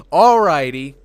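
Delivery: high, loud, bright agreement; chipper robot. Retold or imitated. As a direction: sing out a cheery alrighty. Robot cheerfully agrees then shoots.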